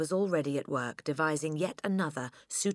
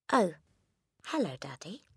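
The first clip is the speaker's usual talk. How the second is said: pleasant greeting; 3 semitones higher than usual. A narrator's reading. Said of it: "she said pleasantly".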